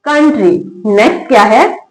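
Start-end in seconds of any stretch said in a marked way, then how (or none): 0.1-0.8 "कंट्री" said with the O silent. Shown as a demonstration. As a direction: model "कंट्री" without any O sound. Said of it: "क्या पढ़ते हैं इसको".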